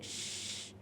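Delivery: whispered श with the tongue curled; sha sound demo. Shown as a demonstration. Teacher to students, a whispered श. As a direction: curl the tongue back for श. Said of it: "वो थोड़ी सी मुड़ी हुई है".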